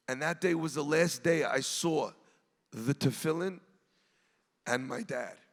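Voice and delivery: low, hushed retelling with long pauses; voicing an old man's painful memory, lightly; solemn recollection. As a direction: recount an old loss softly, haltingly. Retold memory of exile and father.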